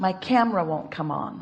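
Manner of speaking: put-on alarmed, frantic, panicked voice. Giving a made-up example of someone speaking during the break: imitating a panicked voice. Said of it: "say in a panicked voice".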